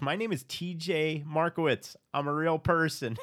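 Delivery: mocking London. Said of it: "Flex goes".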